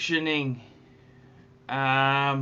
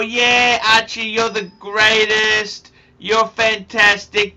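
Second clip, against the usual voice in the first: mock gushing praise, a bit louder and higher; fawning fans; 4 semitones higher, 5 dB louder than usual. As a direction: parrot the fake fans, louder. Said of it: "They're all".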